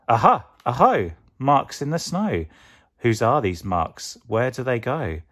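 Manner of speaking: loud, high "Aha! Aho!" then eager questions; bursting with discovery; excited Gruffalo child. Acted. Child finds a trail in the snow, loud and excited.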